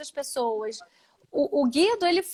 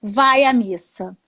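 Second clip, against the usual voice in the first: earnest advice; slower than usual. Retold or imitated. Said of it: "Aí eu falei".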